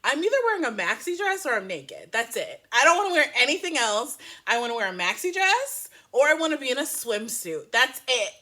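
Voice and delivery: lightly voiced diva laying down terms; mock-insistent, punching the demands a little; Nicole Kidman. Host imagining an actress's contract demands, lightly mock-insistent. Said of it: "She's like".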